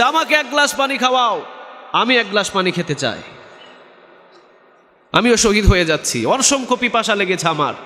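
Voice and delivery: high pleading call, easing down; imitated plea for water. Preacher voices a third wounded man begging, high imitated plea. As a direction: plead high, as one dying of thirst.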